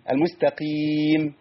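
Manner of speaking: slow "المستقيم" with one q and long ee; drawn-out musta-qeem in "المستقيم"; single qaf, lengthened ending. Shown as a demonstration. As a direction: model "المستقيم", stretching only the final vowel. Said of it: "هي المستقي".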